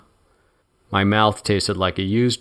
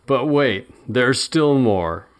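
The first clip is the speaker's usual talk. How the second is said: higher, slow hammed-up pitchman; taunting salesman voice; mock infomercial pitch; 4 semitones higher, much slower than usual. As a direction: drag it out like a sneering TV ad. Mocking TV pitchman repeat.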